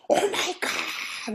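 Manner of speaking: high, drawn-out breathy squeal; hushed but hammed-up screech of delight; mock ecstatic shriek. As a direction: imitate a winner losing it with joy. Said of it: "난리 났어요".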